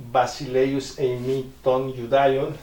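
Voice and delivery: slow reading of "Basileus eimi ton Judaion" in Greek. Shown as a demonstration. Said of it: "Y aquí dice".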